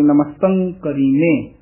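ਕਰੀਮੇ with r as its own syllable; full r pronunciation. Shown as a demonstration. Teacher models the line for reciters, full r in ਕਰੀਮੇ. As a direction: sound a full ka-ree in ਕਰੀਮੇ. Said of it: "ਰਾਰਾ ਪੂਰਾ ਲਾ ਕੇ".

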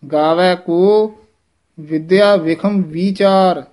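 slow, pause after ਗਾਵੈ ਕੋ, ਵਿਦਿਆ firm; measured recitation. Shown as a demonstration. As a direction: break at ਕੋ, then ਵਿਦਿਆ tight. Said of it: "ਕੱਸ ਕੇ ਬੋਲਣਾ".

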